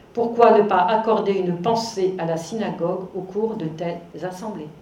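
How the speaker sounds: deliberate reading of a written appeal; measured lecture-hall quotation; formal reading aloud. Acted. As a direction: read it out phrase by phrase. Reads a quoted text aloud.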